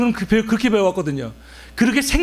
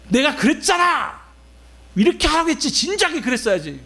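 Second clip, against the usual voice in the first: raised, higher voice, scolding as if proven right; mock angry scolding; 5 semitones higher than usual. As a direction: snap back I-told-you-so, a bit hammed up. Angry person insisting they were right. (높고 큰 소리로 흉내 내며 나무라듯)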